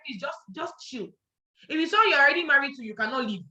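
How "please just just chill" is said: soft chill. Retold or imitated. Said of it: "please tell them".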